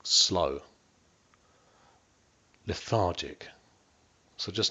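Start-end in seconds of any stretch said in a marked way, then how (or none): 0.1-3.5 slow lethargic. Shown as a demonstration. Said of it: "it will be".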